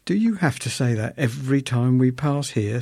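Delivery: weary. Retold or imitated. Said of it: "said Missus H wearily".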